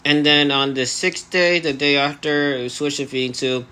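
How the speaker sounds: talking through elastics in the mouth; jaw held shut. Real, not acted. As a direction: speak with the jaw barely moving. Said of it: "now I have, um, elastics in my, uh, mouth".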